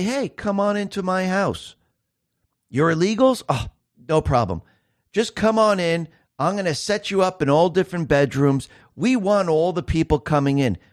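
mock welcome. Mocking Kamala Harris welcoming illegals.

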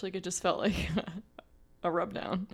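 hushed confiding whisper. Real, not acted. Confiding to her co-host in a secret whisper. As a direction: let it slip out in a breathy whisper with a laugh. Confiding aside about the massage.

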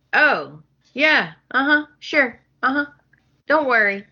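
mock casual uh-huh, then a whispered promise; breezy fake reassurance. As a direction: brush him off lightly, end in a whisper. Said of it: "And Justin's like".

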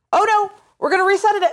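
mocking the game. Mocking the game's story twist.

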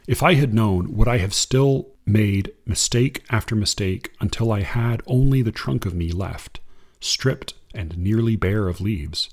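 unhurried reading of verse; poem reading. Acted. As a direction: read it like a poem to an audience. Reads a Limon poem.

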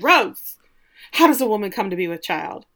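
loud on Rose then a lightly acted prim question; mock urgent demand. Daphne bursting in on Rose, urgent mock demand. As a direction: call Rose loudly, then ask primly. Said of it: "she's like".

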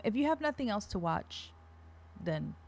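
quiet, halting, with long reluctant pauses; retold lukewarm recommendation. Daughter quoting mom's verdict on a movie, soft and unenthusiastic. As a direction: let it trail down softly, barely endorsing it. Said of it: "and she said, um".

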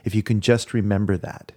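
tender plea. Retold or imitated. Soul's tender plea retold.

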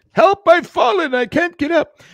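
high, slow, hammed-up cry for help; hammed-up high "help I've fallen"; mock old lady. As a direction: squeal it like a helpless old woman in a commercial. Mocking old people tripping in.

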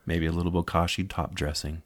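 soft, sultry bedroom voice; soft and seductive, like setting a mood. Pretend. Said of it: "talking in a sweet, sultry voice".

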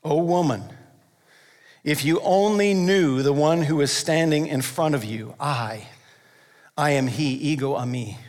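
a gentle, compassionate plea that fades low. Pretend. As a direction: speak it tenderly, as if she should know. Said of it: "Or with compassion?".

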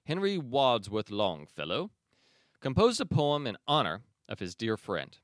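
a touch of British for a literary name; British accent. Real, not acted. Podcast host reading about Longfellow's poem, in a light British accent. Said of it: "I did a British accent".

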